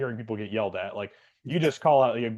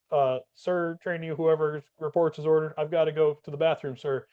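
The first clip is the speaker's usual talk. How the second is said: imitating the timid trainee; 5 semitones higher than usual. Trainee asks to use bathroom.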